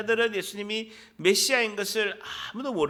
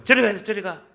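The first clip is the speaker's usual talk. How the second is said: loud, brusque dismissal; acted crowd telling him off; scolding; 6 dB louder than usual. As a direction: shoo the beggar off loudly. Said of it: "꾸짖은 거예요".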